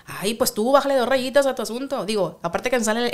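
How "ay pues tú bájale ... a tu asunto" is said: sharp northern Mexican snipe with higher pitch; tú bájale dos rayitas said with sass; snippy, northern accent. Shown as a demonstration. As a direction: snap it with a norteño twang. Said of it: "Pero si ya te dicen".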